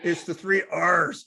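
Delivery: lightly voiced pirate R's; a hint of pirate on the R; playful touch of pirate. Shown as a demonstration. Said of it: "use my pirate voice here".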